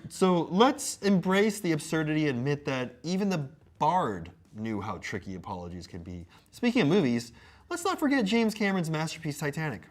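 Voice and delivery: grand, lively recitation; mock-earnest showman reading; theatrical letter reading. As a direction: play up the scripted flourishes. Reads apology letter aloud.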